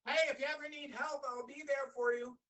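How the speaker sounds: a crow shouting a promise as it flies; crow calling back. Acted.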